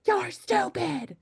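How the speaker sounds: high, sudden voice of someone bursting in; abrupt intruder. Retold or imitated. Someone barging into the room, high and abrupt. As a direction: snap it high like a stranger barging in. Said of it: "someone coming into a room abruptly and being like".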